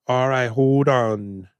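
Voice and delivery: put-on "All right, hold on" dragged out very slowly in a stiff Jamaican accent; mock Denzel stretching "hold on"; Denzel's slow "hold on". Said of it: "Denzel would go".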